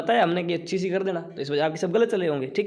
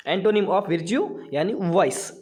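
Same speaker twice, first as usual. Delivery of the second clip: slow dictation; much slower than usual. Shown as a demonstration. Reading answer to the class.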